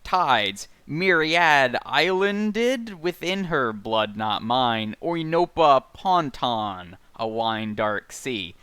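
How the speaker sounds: slow, measured, rolling recitation; literary read-aloud. Acted. Podcaster reciting dense prose to co-hosts, slow literary read-aloud. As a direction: linger on each word, pausing between verbs. Reads novel passage aloud.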